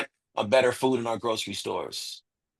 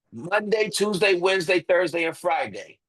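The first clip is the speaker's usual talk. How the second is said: each day separated by a pause, pitched higher; counted out deliberately; 5 semitones higher than usual. Shown as a demonstration. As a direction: tick the days off one at a time. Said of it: "let me say that math again".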